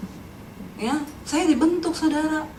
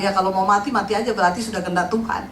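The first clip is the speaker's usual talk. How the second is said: jawaban ketus; 7 semitones lower, faster than usual. Retold or imitated. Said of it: "saya bilang".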